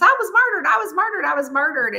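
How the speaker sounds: high, insistent ghost voices; mock wailing complaint, easing down at the end; hammed-up ghosts pleading to be heard; clamoring ghosts. Voicing ghosts clamoring at the heroine.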